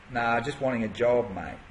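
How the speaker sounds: put-on a light Australian accent, casual and offhand. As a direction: lightly put on an Aussie bloke who only wants a job. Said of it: "I'm doing a bit of Australian".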